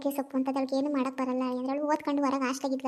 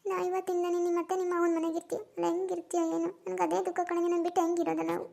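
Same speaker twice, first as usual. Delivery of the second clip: tearful; 3 semitones higher than usual. Acted. Mother tearfully telling her daughter she'll miss her. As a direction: let the grief catch in the throat. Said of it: "ಅಮ್ಮ, ಅಳು ಬೇಡ".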